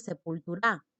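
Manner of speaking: "sepultura" stressed on the last syllable, sepultuRÁ; wrong stress on RA. Shown as a demonstration. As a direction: push the stress to the final RA of "sepultura". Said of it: "tampoco dices".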